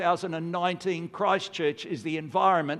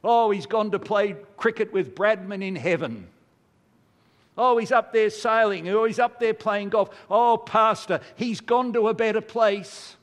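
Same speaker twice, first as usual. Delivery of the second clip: parroting other people's empty comfort, raised voice; mock trivialising platitudes; 3 semitones higher, 4 dB louder than usual. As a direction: lightly imitate glib condolences, pitched up and louder. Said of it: "those around us trivialise it".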